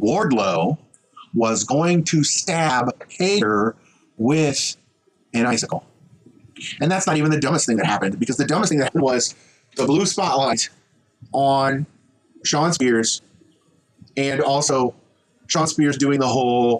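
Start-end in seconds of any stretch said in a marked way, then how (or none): 0.0-5.8 very slow, halting delivery broken into pieces. Repeating a point after announcing a switch to slow deliberate speech. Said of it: "I'm going to talk slower".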